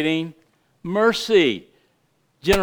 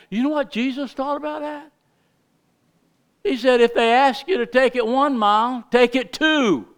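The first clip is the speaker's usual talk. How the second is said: excited preaching; 7 semitones higher than usual. Real, not acted. Excited preaching about Jesus.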